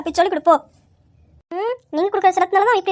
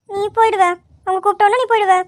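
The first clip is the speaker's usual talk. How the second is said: scolding; 2 semitones higher than usual. Acted. Acted scolding, threatening the boy.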